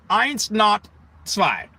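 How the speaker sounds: put-on slow German-accented eins, not zwei. Comic mocking German numbers, slow and deliberate.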